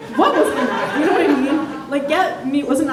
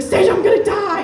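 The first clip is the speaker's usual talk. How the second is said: higher, louder panicked whine; mock panic; 7 semitones higher, 4 dB louder than usual. Drunk guy panicking after fall.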